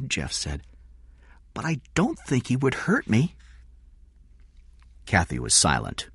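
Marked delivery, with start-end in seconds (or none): 1.5-3.3 put-on high-pitched little boy; child's voice. Jeff talking about Eddie, child's voice. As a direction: speak up high like a trusting child.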